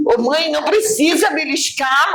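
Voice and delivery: put-on high pleading child's cry; child begging mother to stop pinching; child's plea. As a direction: cry out as a little girl being pinched. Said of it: "eu gritava".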